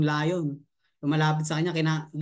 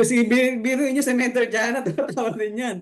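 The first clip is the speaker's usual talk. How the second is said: laughing; 4 semitones higher, 3 dB louder than usual. Real, not acted. Laughing while reading comments.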